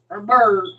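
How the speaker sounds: "bird" with a heavy UR in place of EER; Saint Louis pronunciation. Shown as a demonstration. Showing how Saint Louis talks, "bird" for beard. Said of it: "Like, Saint Louis is her".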